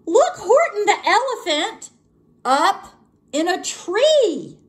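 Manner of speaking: high, mocking, gleeful taunt; teasing friends calling up to the elephant in a tree; gleeful shout. A narrator's reading. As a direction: crow it out like jeering friends. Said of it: "they shouted with glee".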